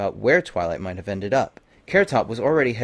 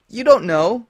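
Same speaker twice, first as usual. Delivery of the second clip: high, loud, anguished cry; high, loud, distraught unicorn; distraught Twilight; 12 semitones higher, 7 dB louder than usual. A narrator's reading. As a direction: cry out in despair.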